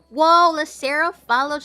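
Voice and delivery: thrilled to spot the follow; excited whoa. Real, not acted. Thanking Lacera for following, an excited loud whoa.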